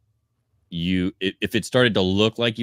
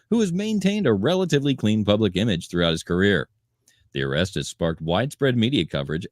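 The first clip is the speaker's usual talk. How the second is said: measured news-copy delivery; entertainment news read. A narrator's reading. Host reads the arrest report to co-hosts, news read.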